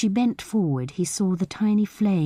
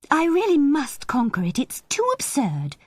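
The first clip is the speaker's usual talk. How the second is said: higher, trying to master the laughter; amused, recovering; 9 semitones higher than usual. A narrator's reading. Anne scolds herself for laughing, high and amused. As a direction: fight down the giggles. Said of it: "to be laughing like this".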